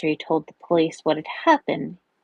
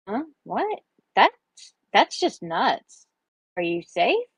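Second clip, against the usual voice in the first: high, startled questions turning to concern; worried friend reacting to bad news; 5 semitones higher, slower than usual. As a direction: pitch leaping up in alarm, then settling. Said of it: "Valeria asked, worried".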